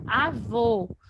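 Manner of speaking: "Avô" with a strong final vô; stress on last syllable. Shown as a demonstration. Teacher showing students the strongest syllable, stressed final vô in "Avô". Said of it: "Observa que vô é a última sílaba".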